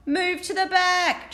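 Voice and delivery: bossy driver calling out; driver cries out. Acted. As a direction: shout the order down the bus. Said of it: "she cried".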